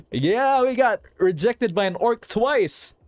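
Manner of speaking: amused disbelief. Real, not acted. Mock-outraged about rejection.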